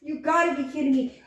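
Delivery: high what, then falling back; acting out the shock of the news; retold disbelief. Telling a friend about the lost money, a high mock-shocked what. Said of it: "I was like".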